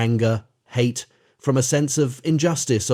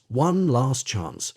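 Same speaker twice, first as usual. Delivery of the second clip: drawn-out, slow plea; slow pleading; much slower than usual. Acted. Boy begs the crocodile, slow mild plea. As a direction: stretch it out, begging.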